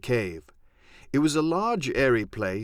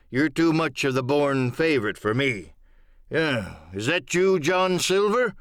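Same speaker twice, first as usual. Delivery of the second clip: gruff captain. Acted. Captain greeting Jim and questioning Silver, blunt. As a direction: speak plainly, a touch gruff. Captain speaks from his bed.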